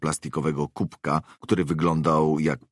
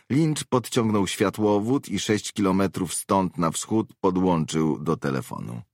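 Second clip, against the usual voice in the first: lightly voiced woman mercenary, pitched higher; higher-pitched character voice for a field report; 5 semitones higher than usual. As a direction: give a briskly factual report in a slightly raised woman's voice. Narrator voices Webber reporting.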